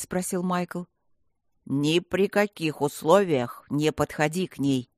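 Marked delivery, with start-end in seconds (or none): 1.7-4.9 слегка обозначенный властный старик; приказать твёрдо, как старый маг; строгий старый волшебник. Acted. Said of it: "приказал старый волшебник". (старый волшебник приказывает Майклу, чуть ниже и строже)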